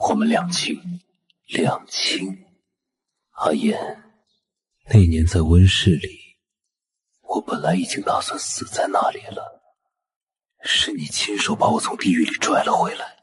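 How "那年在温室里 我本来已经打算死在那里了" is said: intense outburst. Acted. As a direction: force out the memory of near death. Obsessed man recalls near death.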